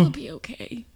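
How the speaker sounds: soft, gentle reassurance; softly calm the upset dog; tender, quiet soothing; soothing comfort. Acted. Sister comforting the guilty dog.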